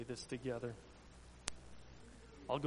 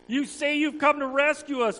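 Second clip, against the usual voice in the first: higher, taunting crowd shout; mock shout; 11 semitones higher, 11 dB louder than usual. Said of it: "people shouted".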